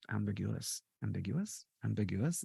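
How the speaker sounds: "ambiguous" repeated softly, emphasis shifted around its syllables; wrong syllable stress. Shown as a demonstration. Host demonstrating the accent, "ambiguous" with misplaced stress. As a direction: say "ambiguous" softly, each time leaning oddly on a syllable, lifting at the end. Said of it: "the wrong emphasis on the wrong syllables".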